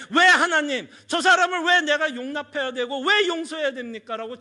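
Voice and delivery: laughing mock protest; arguing with God. Pastor acting out arguing with God, laughing. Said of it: "따질 것 같아요".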